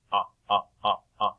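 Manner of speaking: ah, ah repeated as open short vowel; short o in fox. Shown as a demonstration. Teacher sounding fox for children, short ah. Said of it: "the short O sound".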